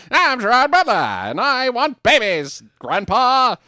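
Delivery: loud, gruff speakeasy gangster. Retold or imitated. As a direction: growl it like a speakeasy tough guy. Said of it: "Speakeasy voice".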